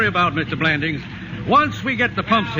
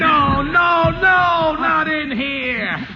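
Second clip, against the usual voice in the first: shouted warning; 4 semitones higher, much slower than usual. Acted. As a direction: shout to stop him. Painter stops him entering.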